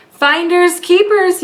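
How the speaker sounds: slow, far-off bear voice bellowing; gruff mock bear yell. A narrator's reading. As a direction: boom it out like a big bear. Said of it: "yelled the bear".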